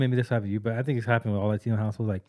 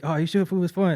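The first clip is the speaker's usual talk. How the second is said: cholo coworker; 8 semitones higher, 3 dB louder than usual. Retold or imitated. Coworker voiced in story.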